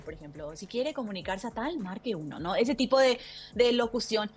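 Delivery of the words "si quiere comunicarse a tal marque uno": a recorded phone menu prompt, softer; phone menu voiceover. Shown as a demonstration. Voice actor demoing a phone menu prompt, automated-message voice. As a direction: read it like the automated line on a company phone. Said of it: "el famoso voiceover de, de, de los teléfonos".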